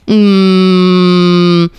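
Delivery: mocking you-sold-our-country jab, a laugh at the end; accusing sneer. Mock accusation of a rich Afghan, sneering. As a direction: stare them down and sneer the accusation. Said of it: "I look at them so crazy 'cause I'm like".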